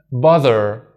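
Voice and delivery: "bother" with the R sounded at the end; American bother. Shown as a demonstration. Teacher demonstrating the American "bother". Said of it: "In American".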